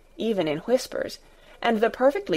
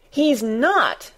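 indignant shout; 4 semitones higher than usual. Acted. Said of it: "cried Mary, almost shouting".

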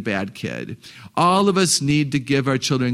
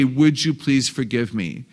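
slow and gentle, a real plea for forgiveness; sincere request for forgiveness. Shown as a demonstration. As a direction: ask sincerely, in no hurry. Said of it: "is you say".

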